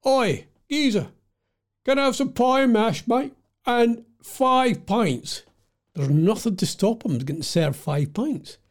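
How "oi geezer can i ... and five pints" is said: put-on London geezer accent. London pub punter ordering pie and pints, in Cockney accent. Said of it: "what kind of accent was that I was gonna do".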